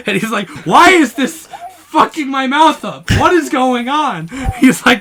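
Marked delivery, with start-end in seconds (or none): 0.7-4.3 imitating an enraged gamer, loud and high; hammed-up furious disbelief; retold angry outburst. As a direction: yell it in mock outrage. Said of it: "he got so mad".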